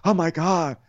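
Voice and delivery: high, whiny fake weeping; hammed-up tearful lament; mock crying. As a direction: whimper it with put-on tears. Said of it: "So now they're, like, crying".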